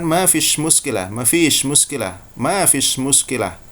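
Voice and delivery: a light Egyptian Arabic lilt, repeated; Egyptian Arabic accent. Shown as a demonstration. Teacher showing students the Egyptian Arabic version. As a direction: say it the Egyptian way, easygoing. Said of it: "Orang Mesir akan, akan mengatakan".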